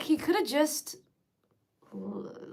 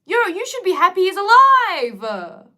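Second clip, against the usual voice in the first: indignant shout; 7 semitones higher, 13 dB louder, slower than usual. Real, not acted. Outraged rant at parents.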